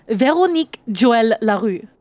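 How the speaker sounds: name pronounced with a French accent; deliberate French-accented name. Shown as a demonstration. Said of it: "at least accent French".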